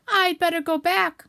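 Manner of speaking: high, loud, slow wail; drawn-out loud alarm; straining distress. Acted. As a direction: heave the words out while stuck. Pooh stuck in the hole.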